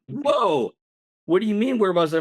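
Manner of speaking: high, startled protest; alarmed disbelief. Retold or imitated. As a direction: shoot up high, acting out indignant shock. Startled reply to police question, retold.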